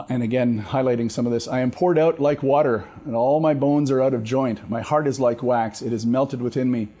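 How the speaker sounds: steady scripture reading voice; psalm reading. Acted. Pastor reads Psalm twenty-two to the class, steady. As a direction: read the psalm with gravity.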